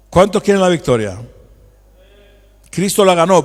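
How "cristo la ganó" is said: louder, forceful declaration; loud proclamation. Real, not acted. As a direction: proclaim it loudly. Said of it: "¿Por qué tan fuerte?".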